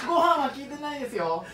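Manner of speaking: laughing correction from the studio. Real, not acted. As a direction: chuckle through the words. (笑いながら訂正する)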